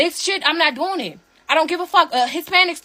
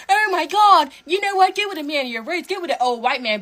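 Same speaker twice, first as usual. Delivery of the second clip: Shira Savin impression. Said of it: "what the fuck Shira Savin said".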